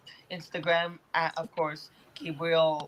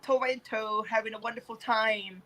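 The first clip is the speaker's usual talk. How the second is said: put-on proper voice; 3 semitones higher than usual. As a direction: play at being an over-careful tourist. Playing with the over-proper pronunciation.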